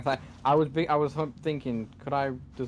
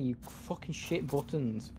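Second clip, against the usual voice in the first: slow seething curse; 7 dB quieter, slower than usual. Real, not acted. Cursing the game controls.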